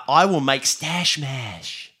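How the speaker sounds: slow, drawn-out stoner offer; lazily imitating a stoned friend. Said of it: "Did he say it in that voice?".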